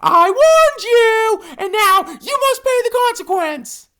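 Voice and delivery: very high, loud, slow cartoon warning; glaring threat. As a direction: spell out the threat slowly. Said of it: "Glaring at the alligator".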